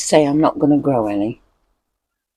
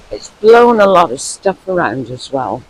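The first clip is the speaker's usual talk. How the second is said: raised voice against the wind; speaking up over gusts; shouting over wind; 6 dB louder than usual. Real, not acted. Outdoors, wind heard loudly.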